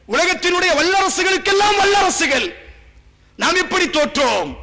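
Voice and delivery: loud, high anguished cry of a defeated queen; preacher voicing the Persian queen's despair, loud and high; Persian queen's lament. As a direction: wail it out like a queen asking how her empire fell. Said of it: "கேட்கிறான் அந்த பெண்மணி".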